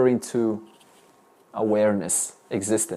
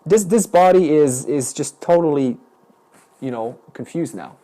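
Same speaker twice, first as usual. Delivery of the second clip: raised, louder example voice; speaking as the body; 5 dB louder than usual. Shown as a demonstration. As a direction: announce it as a demonstration, hesitating. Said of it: "why don't you speak as the body".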